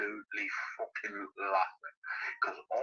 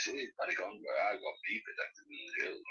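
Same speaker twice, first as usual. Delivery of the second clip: mocking old man; 4 dB quieter than usual. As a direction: sneer his brag back at him in a squeaky voice. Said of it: "he says".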